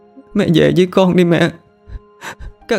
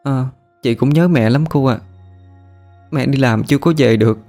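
mild sobbing; 5 semitones higher than usual. Acted. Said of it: "nó khóc thút thít".

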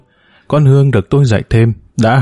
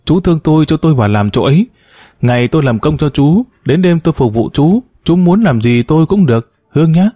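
higher, pleading plea with rising desperation; 4 semitones higher than usual. Acted. Woman begs the narrator for work, pleading higher. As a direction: beg him to take her in, voice climbing. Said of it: "Chị Vân cầu khẩn".

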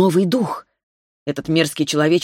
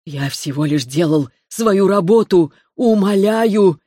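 begging; 2 semitones higher, slower than usual. Acted. Choking man begs for mercy.

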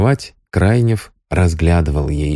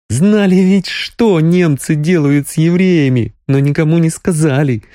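higher, mildly tearful Sonya; tearful accusation; 9 semitones higher than usual. A narrator's reading. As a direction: accuse the cowards.

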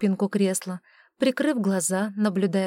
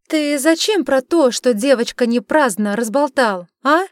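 loud, high stern interrogation; stern demand; 5 semitones higher, 8 dB louder than usual. A narrator's reading. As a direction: scold him like a strict witch. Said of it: "сурово вопросила ведьма".

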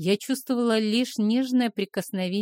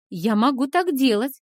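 taunting; 6 semitones higher, 6 dB louder than usual. Acted. Heroine taunts him.

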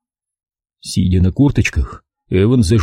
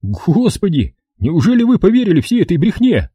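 higher, mildly outraged private; indignant Evans; 9 semitones higher than usual. A narrator's reading. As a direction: scoff at their gullibility, lightly. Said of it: "возмутился в свою очередь Эванс".

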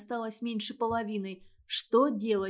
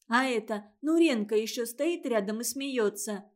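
plain reading voice

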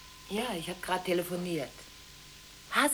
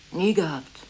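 insistent; 4 semitones lower, 4 dB louder than usual. Acted. Insisting denial, louder.

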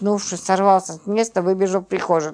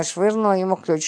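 plain reading voice

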